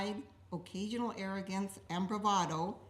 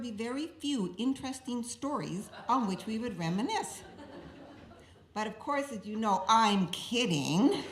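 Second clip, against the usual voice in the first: joking through laughter; 4 dB louder than usual. Real, not acted. Teasing deadpan setup, then laugh.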